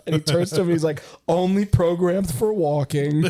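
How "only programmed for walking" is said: slow, drawn-out mimicked reply; lightly voiced game character. Game character answers the impatient guy, lightly voiced and drawn out.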